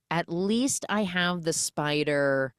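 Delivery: slow, careful piecing together of words; working out translation. Acted. Wife decoding husband's Romanian joke, slowly puzzling it out. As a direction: translate haltingly as you go. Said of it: "she's working out the translation".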